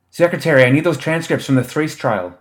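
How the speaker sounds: bellowed. A narrator's reading. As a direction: bellow to be heard over everyone. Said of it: "another woman bellowed".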